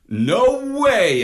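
high loud call. A narrator's reading. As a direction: shout it from the sleep pod. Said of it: "called out Marlowe".

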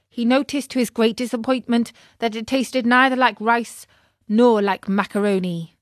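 ordinary delivery, nothing marked

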